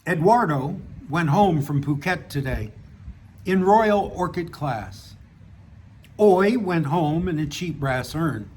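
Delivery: measured reading of a written story; story narration. A narrator's reading. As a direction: read your short story aloud, pausing between sentences. Reads own story aloud.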